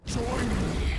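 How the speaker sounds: commanding shout. Acted. Villain demands allegiance.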